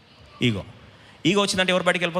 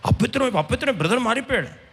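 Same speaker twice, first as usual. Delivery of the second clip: mock scandalized outcry; 5 semitones higher than usual. Voices scandalized people judging his shoes.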